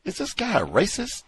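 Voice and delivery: imagined question. Retold or imitated. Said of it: "They didn't say".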